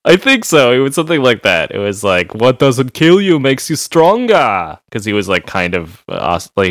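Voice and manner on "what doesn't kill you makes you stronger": mock Austrian accent, higher and slow; slow Austrian-accented action hero catchphrase; Arnold Schwarzenegger. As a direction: put on a hammy Austrian accent. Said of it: "he was Arnold adjacent".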